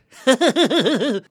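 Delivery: loud high-pitched laugh. Shown as a demonstration. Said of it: "stick in the lower register".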